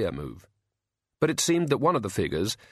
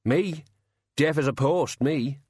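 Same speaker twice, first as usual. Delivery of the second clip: higher, nervously babbling driver; burbling; 5 semitones higher, slower than usual. A narrator's reading. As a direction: hastily play ignorant. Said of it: "burbled Ernie".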